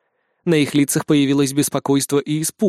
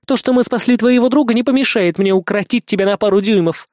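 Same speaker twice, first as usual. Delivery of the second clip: raised, threatening snap; snarling Amanita; 7 semitones higher, 4 dB louder than usual. Acted. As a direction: warn the short dwarf with menace.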